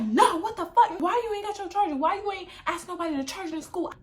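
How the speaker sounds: high-pitched mock exasperation; acted scolding mom. Mom grilling daughter about her dead phone, acted high-pitched scolding. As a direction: imitate mom demanding an explanation.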